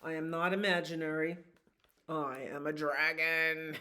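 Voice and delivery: a dragon standing his ground, mildly voiced. Dragon insists.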